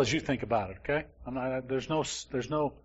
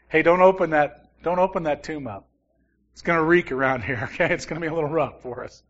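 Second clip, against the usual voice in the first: a loud, half-joking practical sister saying no; playful Martha protest; 2 semitones higher, 5 dB louder than usual. Retold or imitated. Martha warning Jesus off the tomb, mock protest. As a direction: jokingly wave them off the stinking tomb.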